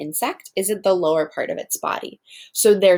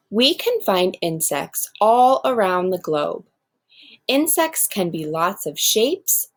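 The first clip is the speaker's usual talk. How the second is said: expressive classroom read-aloud; reading to children. Acted. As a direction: read it out like a picture book for the class. Teacher reads text aloud to class.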